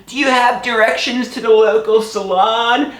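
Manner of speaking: put-on high-pitched elderly lady voice; elderly woman. Elderly woman asking for directions, high voice. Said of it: "It's an elderly woman".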